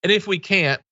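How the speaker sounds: mock Cheney. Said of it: "That's Liz Cheney saying".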